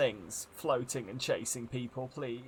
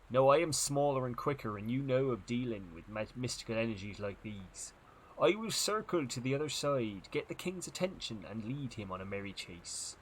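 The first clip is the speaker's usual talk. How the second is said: lightly voiced first mate cutting in; interrupting first mate. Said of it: "But the first mate interrupted".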